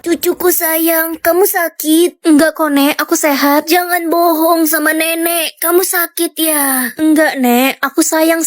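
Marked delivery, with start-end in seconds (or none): 0.1-2.2 lightly voiced sickly granny, worried; frail grandma. 3.7-6.9 lightly voiced sickly granny, worried; frail grandma.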